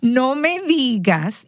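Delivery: slow, drawn-out playful disbelief; mock surprise. Aunt reacting to her nephew's news with slow playful surprise. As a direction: act amazed to encourage him.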